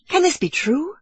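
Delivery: high-pitched disbelief; amazed cry. A narrator's reading. Kiawe hearing the bosun keep the bottle, high amazed cry. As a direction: cry out, hardly believing it. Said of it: "Kiawe cried".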